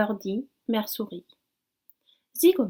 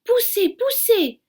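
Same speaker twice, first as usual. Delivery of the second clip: out of breath; 12 semitones higher, 7 dB louder, slower than usual. A narrator's reading. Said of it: "s'essouffle Zigomar".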